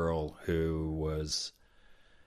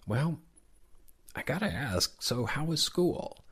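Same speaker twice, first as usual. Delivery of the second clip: playful high Santa; 8 semitones higher than usual. Retold or imitated. Santa gently teasing a child.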